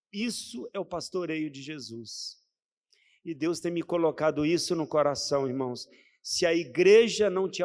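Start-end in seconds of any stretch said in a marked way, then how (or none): 0.1-2.4 hushed whisper, no voice. Acted. Preacher whispering the point to the church, hushed. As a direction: breathe it out as a secret.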